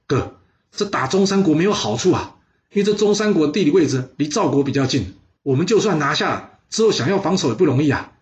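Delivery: a worried little brother talking his big brother out of war; pleading younger brother. Acted.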